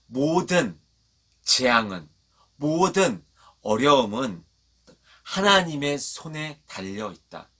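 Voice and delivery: slow, measured phrases with pauses between; deliberate recitation to be repeated; for repeating. Shown as a demonstration. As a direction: lead the congregation phrase by phrase. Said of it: "따라해보겠습니다".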